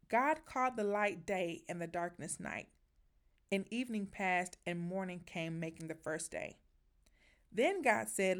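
measured, solemn Bible reading; scripture reading. Acted. Reads Genesis aloud.

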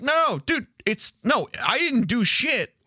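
high, pleading denial; mock protest. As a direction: protest your innocence, half-hammed.

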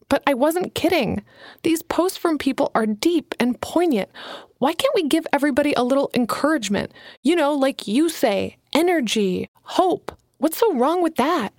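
a hint of a nervous young writer pitching her idea; young Alana, eager. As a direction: lift the voice a little for eager Alana. Alana pleading, narrator voice.

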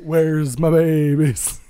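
put-on slow laughing baby-talk echo; imitating baby talk. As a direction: repeat the coo while laughing. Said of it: "Is that how we're breaking into baby talk".

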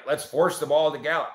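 sarcastic, mock suggestion. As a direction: say it with heavy sarcasm.

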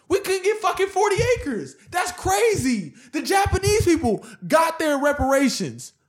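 high, indignant complaint; emotional rant. Real, not acted. Protesting to friends about denied reparations, emotional rant. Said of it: "full, you know, emotional build up".

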